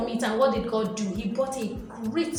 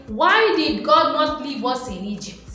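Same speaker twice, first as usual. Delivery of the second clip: mock complaining; 3 semitones higher, 3 dB louder than usual. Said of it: "they were complaining and saying".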